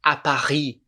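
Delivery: "À Paris" as ah pa-REE; French "Paris" ending on the vowel; silent S. Shown as a demonstration. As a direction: leave the S off "Paris", throaty R. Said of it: "não falo o S".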